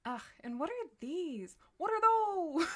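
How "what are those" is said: high, loud yelled meme line; meme shout. Pretend. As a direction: bellow it like the viral meme. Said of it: "My brain has been poisoned by the internet".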